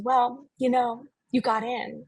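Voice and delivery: slow, drawn-out dramatic reveal; milk the pause like a diva; lightly hammed-up diva announcement. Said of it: "takes this long dramatic pause".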